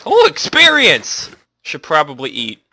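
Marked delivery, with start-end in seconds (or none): 0.1-1.3 high, slow, drawn-out Experience; mock announcer cry. Gamer hailing an XP pickup, high drawn-out mock announcer cry. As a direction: stretch the word out like a game announcer.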